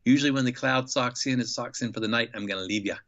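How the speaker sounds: put-on casual Australian accent, lightly done; a hint of an Aussie mate. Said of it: "in his great Australian accent".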